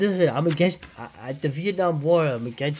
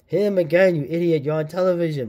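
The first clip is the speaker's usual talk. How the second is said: higher, louder scolding; mock angry yell; 4 semitones higher, 4 dB louder than usual. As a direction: yell at the clumsy goon. Villain scolding goon in comic.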